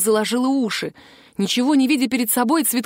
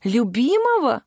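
exclaiming; 3 semitones higher, slower than usual. A narrator's reading. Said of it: "воскликнула уже одетая Вероника".

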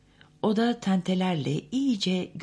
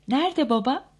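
put-on child's voice; 10 semitones higher, 5 dB louder than usual. A narrator's reading. Child asks.

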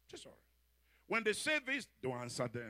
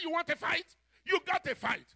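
louder, higher tough challenge; mock angry challenge; 7 semitones higher, 5 dB louder than usual. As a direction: throw down the gauntlet playfully. Champion's challenge retold.

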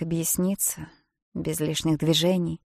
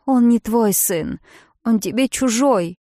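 slow, higher, loud through tears; tearful rebuke; 5 semitones higher, 9 dB louder than usual. Acted. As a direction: reject her through tears. Bridget continues sobbing rebuke. (со слезами, медленно и выше)

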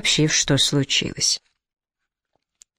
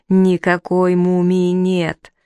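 frantic yell; 3 semitones higher, much slower than usual. A narrator's reading. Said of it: "взревел египтолог как безумный".

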